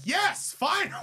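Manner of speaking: high, exultant yell imitating a friend; mock triumphant cheer. Teasing a friend whose views finally align, mock triumph. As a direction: cheer it like a long-awaited victory. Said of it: "She's like".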